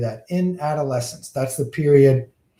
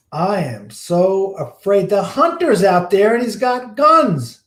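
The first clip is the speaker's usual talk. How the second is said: higher, slow frightened tiger; the tiger begging the magician, mock terrified; hammed-up fear; 5 semitones higher, 3 dB louder than usual. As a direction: plead like a scared beast. Tiger afraid of hunter.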